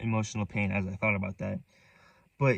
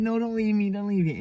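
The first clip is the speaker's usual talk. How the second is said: higher-pitched mock pleading; imitating his pleading; 9 semitones higher than usual. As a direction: lightly replay his tearful begging. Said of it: "if you took him saying".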